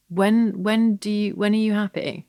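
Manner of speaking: high, pressing retold question; retold parent's insistent questioning; insistent dad. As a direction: press for an answer, pitch held up. Retells dad pressing her to answer.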